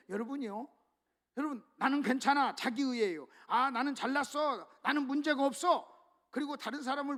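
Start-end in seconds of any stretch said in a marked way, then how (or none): 1.8-2.6 louder, self-satisfied mock boast; arrogant self-assurance. Preacher mimicking a self-righteous person, mildly arrogant. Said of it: "교만하잖아요". 3.5-5.9 mock self-righteous boast, slightly pushed; arrogant boasting. Preacher voicing a proud Pharisee type, arrogant boast. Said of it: "교만하잖아요".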